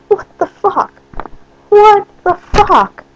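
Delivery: slow stunned outrage; slow exasperated disbelief. Real, not acted. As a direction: spell out your disbelief. Exasperated comment on him.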